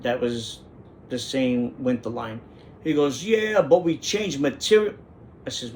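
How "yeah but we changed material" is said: higher-pitched mock Italian accent; fresh-off-the-boat accent. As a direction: imitate an Italian immigrant's broken English. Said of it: "sounds like he just got off the boat".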